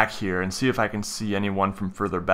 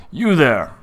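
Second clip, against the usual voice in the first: higher-pitched call to a stranger; calling out in character; 5 semitones higher, 3 dB louder than usual. Acted. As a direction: hail him to get his attention. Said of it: "I call out to him".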